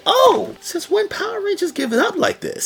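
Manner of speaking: squeaky high shocked voice; mock disbelief. Viewer reacting to the sneak attack, in a squeaky shocked voice. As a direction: act scandalised at the Rangers' dirty move. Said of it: "I'm like".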